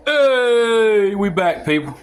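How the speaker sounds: laughing hello on return; laughing greeting. Real, not acted. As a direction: burst in with a laugh.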